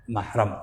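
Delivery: mahram said slowly, softly, with a in the first syllable; correct reading repeated. Shown as a demonstration. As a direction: draw out mahram as "mah-ram", softly. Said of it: "Yang benar mahram".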